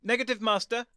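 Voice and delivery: high, loud robotic report. Acted. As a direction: answer like a robot dog. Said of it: "the robot replied".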